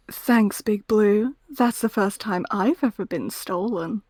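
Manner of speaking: retry the Rouge line, slow and sultry; sultry Rouge line, second try. Shown as a demonstration. Retrying a Rouge quote for friends, slow and sultry. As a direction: purr it like a jewel thief. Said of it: "Hold on, my throat dried up".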